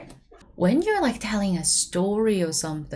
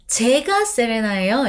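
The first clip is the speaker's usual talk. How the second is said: quick, louder 제가 세레나예요 with 제가 pushed forward; eager self-identification; 3 semitones higher, 5 dB louder, much faster than usual. Shown as a demonstration. Answering the stranger who asked for Serena, quick and eager. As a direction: pop up fast to claim 제가. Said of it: "And I can say".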